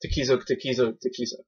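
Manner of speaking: name repeated in a quick run; quick tongue-twister attempt; fast tongue-twister. Shown as a demonstration. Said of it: "you can't say three times fast".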